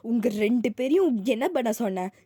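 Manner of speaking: angry mum telling them off loudly; mother yelling. Acted. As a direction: shout at the kids over the broken photo. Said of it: "செம்ம கத்து கத்துறாங்க".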